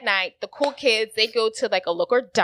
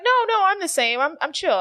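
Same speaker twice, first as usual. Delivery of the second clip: mock defensive Chase; 10 semitones higher, 3 dB louder than usual. Mimics Chase denying he changed.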